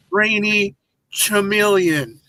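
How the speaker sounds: slow, stretched-out joke delivery; teasing, slow reveal; drawn-out punchline. Pretend. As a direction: draw each word out with pauses. Jokey announced punchline, slowly drawn out.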